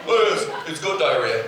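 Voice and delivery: low, quick, offhand kid voice mocked; casual kid. Comic mimicking the unbothered kid's shrug. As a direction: toss it off like nothing's wrong. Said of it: "imitates kid casually".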